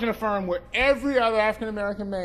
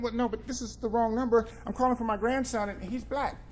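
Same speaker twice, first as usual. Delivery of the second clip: put-on confused old woman; 3 semitones higher, 4 dB quieter than usual. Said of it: "very confused".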